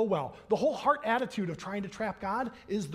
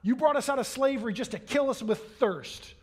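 mock angry complaint; 2 semitones higher, 3 dB louder than usual. Thirsty Israelites complaining to God in the desert, mock angry. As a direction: complain to God as an aggrieved crowd. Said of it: "They're angry about the fact".

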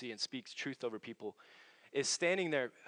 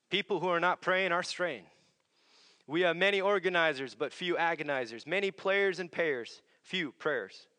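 rhythmic preaching of a rhyming quote, each pair set against the other; preached quotation. Acted. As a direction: drive each contrast home like a sermon. Reciting Ravenhill's rhyming quote.

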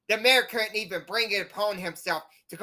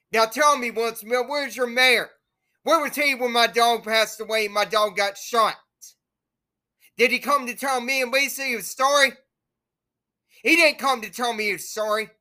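raised, heated demands at the mayor; angry rant; 3 semitones higher, 4 dB louder than usual. Real, not acted. Ranting at Wilsonville fans over his dead dog, angry. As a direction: call him out, voice up and hurt.

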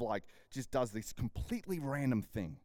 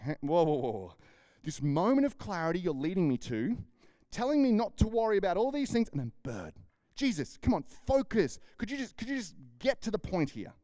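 exasperated louder rant, hammed-up; annoyed rant; 4 semitones higher, 4 dB louder than usual. Fed-up follower pleading with Jesus to get to the point, louder. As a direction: throw up your hands, mock frustration at Jesus. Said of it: "you'd get annoyed".

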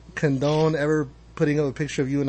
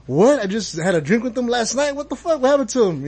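retold shock; 6 semitones higher than usual. Retelling panic over friend's hospital.

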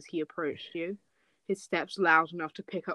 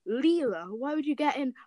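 character voice; 6 semitones higher than usual. Acted. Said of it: "To do the voice".

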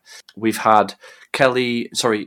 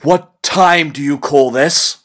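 stern scolding; 3 semitones higher, 4 dB louder, slower than usual. Acted. Boss scolding late employee.

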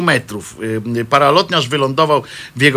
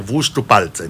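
creepy priest; 5 semitones lower, slower than usual. Retold or imitated. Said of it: "przyszedł i mówi tak".

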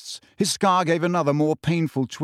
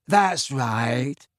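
happy, smiling agreement in another voice; lightly voiced, pleased character. A narrator's reading. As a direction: agree contentedly through a smile. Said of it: "smiling happily".

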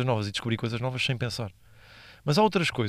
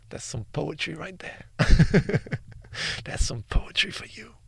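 awed whisper; 4 semitones higher, slower than usual. Real, not acted. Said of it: "mock-awed aside on nephew".

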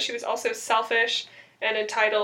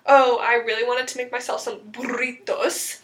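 mock Spanish accent; 4 dB louder than usual. Shown as a demonstration. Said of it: "say it with a Spanish or a French accent".

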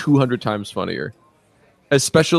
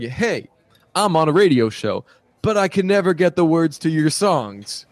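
higher voice lightly imitating a questioner; imitated press questioner; 6 semitones higher than usual. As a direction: put on a mild fan-like reporter's pitch. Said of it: "O C U Minora asked a singer".

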